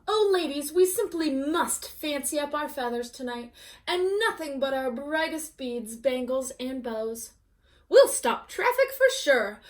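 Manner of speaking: fussy hens squealing over a party; excited hens. Acted. Hens cluck to one another, gushing and excited.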